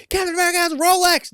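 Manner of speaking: high, loud mock announcement to the kids; proclaiming Captain America has a Rolex; announcing. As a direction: declare it grandly up high.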